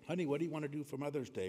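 quick, lightly acted spouse asking; lightly voiced household chat, hurried; mock family question. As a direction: toss off a playful mock question, fast. Jokingly voiced family conversation.

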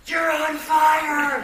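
high, slow mock yell from across the shop; half-laughing imitation of a distant warning cry; retold shout.

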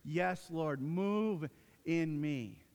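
very slow, tender prayer; slow, hushed devotion; prayerful surrender. Retold or imitated. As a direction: pray it slowly and humbly. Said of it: "and we say".

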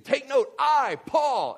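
high, loud command as Paul; imitated apostle, punchy and forceful; fired up. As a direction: act out Paul demanding attention. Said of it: "he's getting so fired up".

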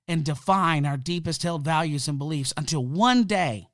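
emphatic, driving delivery; fired up. Real, not acted. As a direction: make the case with real fired-up conviction. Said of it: "sorry if I sound fired up".

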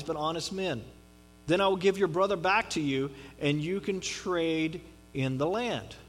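measured Bible reading voice; scripture reading. Acted. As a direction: read the passage to the congregation. Reads a scripture passage.

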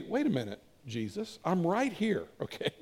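soft, hesitant interjection, acted; tentatively piping up. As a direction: timidly remind them you're present. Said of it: "Matthew to pipe up and say".

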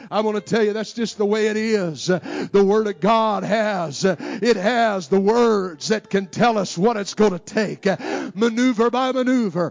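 soaring, shouted, slowed preaching climax; full-force preaching. Acted. Preacher exhorting the congregation to trust the Word, shouting and half singing. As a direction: drive it home to the congregation at full voice.

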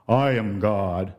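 slow, grand declaration; lightly hammed-up majestic God; stern God voice. Shown as a demonstration. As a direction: announce it like a remote deity.

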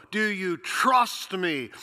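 slow, deliberate question; slow God voice. Acted. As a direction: draw it out, weighing each word.

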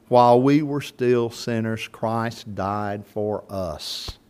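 measured scripture reading, slowing at the end. Acted. Preacher reads Romans to the congregation, slowing at the close. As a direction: read Romans to the congregation, easing down.

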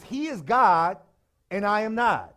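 loud and punchy, landing the line; emphatic declaration. Real, not acted. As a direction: declare it with full force. Preacher declaring the refrain.

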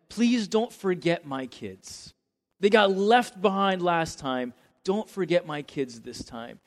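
acted motherly pleading, mildly anxious; lightly voiced concerned mom; sincere plea. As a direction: plead on your children's behalf, a touch fearful. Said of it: "a very sincere thing".

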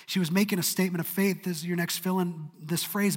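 ordinary delivery

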